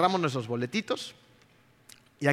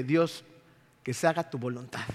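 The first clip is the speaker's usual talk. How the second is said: softer, yielding prayer; surrendered prayer; 3 semitones lower, 5 dB quieter than usual. Retold or imitated. Traveller in customs line quietly surrendering to God. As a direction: let go and pray.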